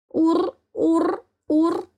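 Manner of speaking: high, lightly voiced kitten purr. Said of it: "замурлыкал котёнок". (лёгкое мурлыканье котёнка)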